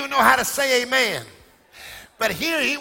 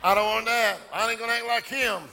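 mock reluctant churchgoer; 2 semitones lower than usual. Preacher imitating members who don't want rain, mock grumbling. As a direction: grumble like someone refusing to join in. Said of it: "some of you are like".

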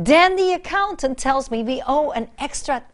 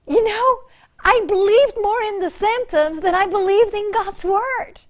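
preaching at full force; 7 semitones higher than usual. Acted. Preacher confessing with rising force.

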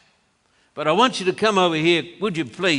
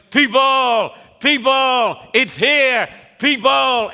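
retold shout; 5 semitones higher than usual. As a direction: cry out to the congregation. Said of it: "the preacher shouted at the top of his voice".

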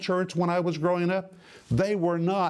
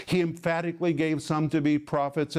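firm stress on "emphatically"; emphatic. Shown as a demonstration. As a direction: press home "emphatically" with conviction. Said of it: "It is emphatic".

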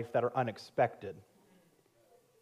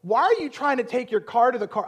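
higher, louder mock wife; higher, louder mock of the wife's baffled question; 9 semitones higher, 7 dB louder than usual. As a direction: send up her groggy confusion. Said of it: "she's like".

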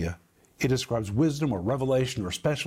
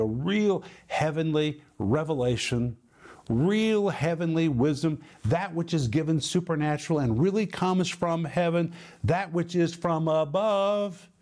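emphatic preaching; 3 semitones higher than usual. Real, not acted. Preaches on the verse's meaning.

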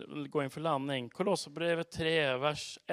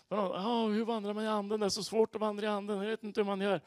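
higher, lightly whining quote; mock complaint; 4 semitones higher than usual. Preacher imitating believers puzzled by walking in the Spirit, mock complaint. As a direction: fret as a baffled believer would.

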